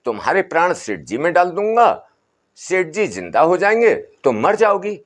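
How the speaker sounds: a hint of an old sadhu calming the family; Baba's voice. बाबा सेठानी से. (बाबा की हल्की ऊँची, समझाती आवाज़)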